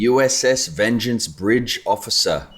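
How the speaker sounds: slow, drawn-out mock-official announcement; hammed-up starship officer reading out his title; bridge officer announcement. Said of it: "No, I've got it here".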